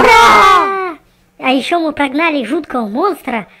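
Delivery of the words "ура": joyful cheer. Acted. Victory cheer.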